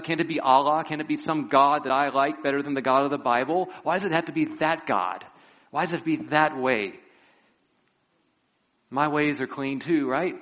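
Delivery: complaining objector. Retold or imitated. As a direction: argue back like a stubborn skeptic. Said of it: "it's like someone saying".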